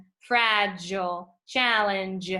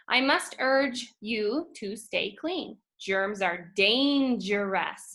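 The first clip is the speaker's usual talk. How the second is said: slow poem reading; slower than usual. Acted. Rereads poem lines slowly.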